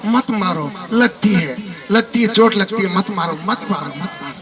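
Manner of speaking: half-hearted mock cries, fading away; crying out. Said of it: "चिल्लाने लगा". (हल्की नकली चीख, धीमी पड़ती हुई)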